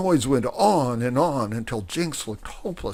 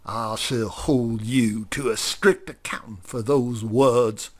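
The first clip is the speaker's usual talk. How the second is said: restrained furious threat; 4 dB louder than usual. Acted. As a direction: threaten him in cold fury. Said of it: "said Grover furiously".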